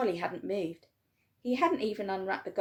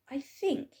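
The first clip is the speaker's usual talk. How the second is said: whispered, almost breathless; quiet whisper; 6 semitones higher than usual. A narrator's reading. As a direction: hush it like a shy boy. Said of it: "he said quietly".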